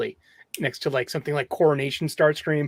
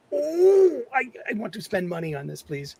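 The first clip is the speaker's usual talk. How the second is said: mock pleading; 7 semitones higher than usual. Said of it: "And I'm like".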